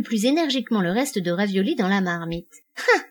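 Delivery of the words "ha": high, short burst of laughter; loud laugh. A narrator's reading. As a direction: let out one sudden high "Ha!". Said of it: "éclate du rire le plus sonore".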